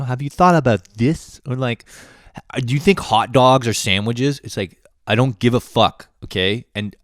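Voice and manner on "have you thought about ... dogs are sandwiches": higher, louder, eager silly asker; mock dumb question. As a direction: parody the person who asks pointless questions.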